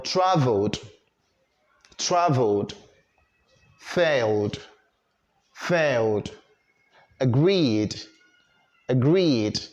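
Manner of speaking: "traveled", "failed", "agreed", "tried" closed with "d"; voiced D ending. Shown as a demonstration. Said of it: "pronounce the E D as".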